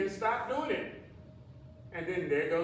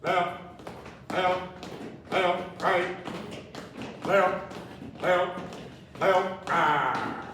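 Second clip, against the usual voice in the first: aerobics instructor; much slower than usual. Acted. Calling march steps.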